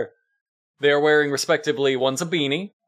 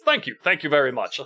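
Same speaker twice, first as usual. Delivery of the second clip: A singer. Retold or imitated. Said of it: "loses that accent entirely and just says".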